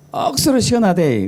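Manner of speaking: high-starting, falling Gyeongsang accent; Gyeongsang dialect. Shown as a demonstration. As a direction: hit the first word high, Gyeongsang style. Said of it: "경상도는 어떻게 하죠?".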